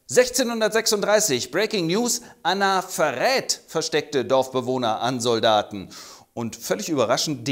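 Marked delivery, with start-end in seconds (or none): 0.1-5.9 mock news anchor correction; corrected news flash. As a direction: correct the headline deadpan. Fake News und es heißt in Wahrheit.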